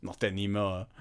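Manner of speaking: dry, quiet, flat-affect reply; deadpan. Retold or imitated. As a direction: say it utterly matter-of-fact. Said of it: "his deadpan answer is".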